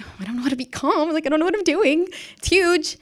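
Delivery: high, fast fretting horse voice; mock panicked horse. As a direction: fret comically as the stressed horse.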